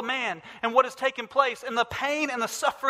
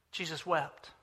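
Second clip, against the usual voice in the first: hushed repeat; 6 semitones lower, 10 dB quieter, slower than usual. Real, not acted.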